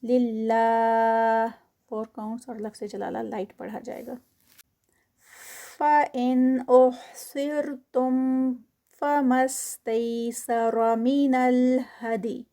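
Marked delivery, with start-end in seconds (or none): 5.8-12.4 Quran recitation. Shown as a demonstration. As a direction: recite it with careful elongation. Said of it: "فَإِنْ اظہار ہوگا".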